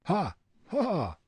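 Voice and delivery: high, staged "ha, ha"; two separate high mocking ha's; thrown-voice laugh. A narrator's reading. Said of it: "laughed Fritz, throwing his voice".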